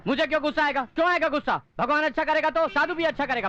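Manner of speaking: mildly angry, indignant questions; touchy, irritated protest; testy denial. Acted. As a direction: deny your temper while showing it. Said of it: "गुस्सा बहुत आता है".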